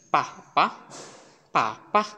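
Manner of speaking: "পা" in short unvoiced pairs; teacher modelling Chinese b as "পা". Shown as a demonstration. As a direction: drill "পা" with no voicing on the consonant. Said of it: "চাইনিজে এটা আনভয়েস".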